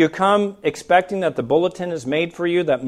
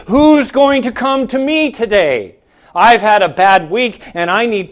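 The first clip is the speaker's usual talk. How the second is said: higher-pitched mock expectant question; entitled churchgoer; 4 semitones higher, 5 dB louder than usual. Churchgoer sitting around waiting to be ministered to, mock entitled. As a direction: voice someone waiting to be served.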